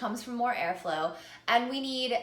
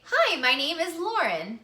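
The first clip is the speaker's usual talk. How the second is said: "Hi, my name is Lauren" said higher and louder, sure of herself; confident introduction; 6 semitones higher, 5 dB louder than usual. Shown as a demonstration. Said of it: "But if I really felt confident".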